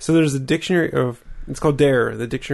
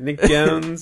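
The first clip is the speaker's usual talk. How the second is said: put-on Pittsburgh accent; 2 semitones higher than usual. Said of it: "that's a great accent".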